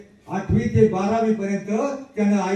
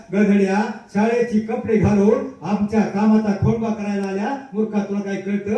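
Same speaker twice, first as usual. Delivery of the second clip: retold scolding. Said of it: "सतरा शिव्या त्याला दिल्या".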